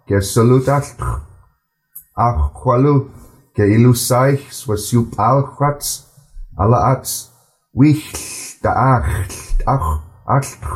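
slow, measured reading in a steady flow; slow careful reading. Shown as a demonstration. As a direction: read each word slowly and clearly, in a smooth flow. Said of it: "I'm gonna read it a bit slower".

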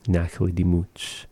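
Nachla Dimut softly, its ending blurred into ch; T sound dropped. Shown as a demonstration. Teacher showing the common form, Nachla Dimut with ending run together. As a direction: drop the separate T at the end of Dimut. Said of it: "for the T sound to be dropped".

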